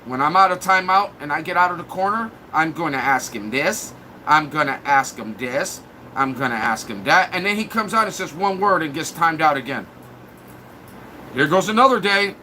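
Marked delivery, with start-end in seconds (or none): 2.5-7.3 imitating a troll. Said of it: "they write notes".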